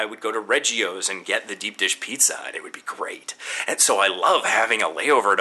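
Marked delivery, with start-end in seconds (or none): 2.5-3.3 whispered aside. Real, not acted. Fond memory of pizza.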